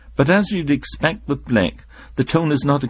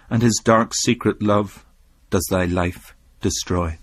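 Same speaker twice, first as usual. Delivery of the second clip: poem recital; 2 semitones lower than usual. Acted. Recites The Sick Rose.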